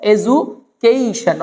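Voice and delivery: "এডুকেশন" as e-zu, then long kei-shon; ju pronunciation. Shown as a demonstration. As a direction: say "এডুকেশন" with zu instead of du. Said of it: "ডু হয় না".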